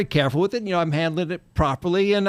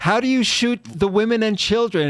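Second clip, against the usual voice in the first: ordinary talk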